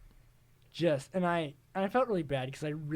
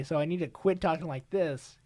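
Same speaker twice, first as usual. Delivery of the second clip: slimy creep voice, a bit louder; creepy voice; 2 semitones higher, 6 dB louder than usual. Shown as a demonstration. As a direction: talk like a creep on the mic. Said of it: "Quit talking like a creep".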